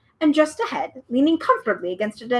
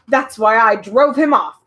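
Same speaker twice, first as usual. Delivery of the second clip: louder, fierce boast; fierce cry; 8 dB louder than usual. Acted. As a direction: brag it fiercely. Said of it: "cried the humbug".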